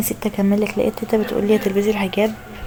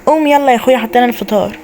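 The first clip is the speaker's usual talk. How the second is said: angry wake-up; 2 semitones higher than usual. Acted. Sister angrily waking her lazy brother. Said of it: "بتتكلمي بعصبيه كده ليه".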